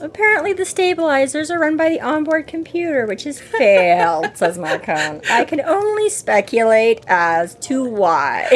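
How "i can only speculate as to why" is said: slow, drawn-out dry sarcasm; sarcastic quip. Retold or imitated. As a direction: quip it slowly, with mock innocence. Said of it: "Marcone sort of quips sarcastically".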